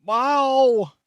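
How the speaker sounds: high, loud meowing cat; a loud, high cat yowl; mock cat meow. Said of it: "It's like".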